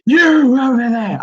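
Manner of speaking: loud hammed-up call-out; mock Brian Blessed bellow. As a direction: boom it at the kid like a TV ham. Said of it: "I was like".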